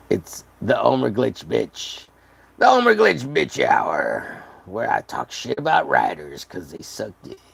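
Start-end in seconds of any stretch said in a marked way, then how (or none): 0.1-4.4 slow, drawn-out announcer title; slow mock announcer; mock show intro. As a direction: announce the show name like a host.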